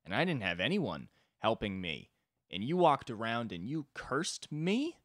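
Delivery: exasperated single parent. Acted. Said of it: "like a single parent where it's like".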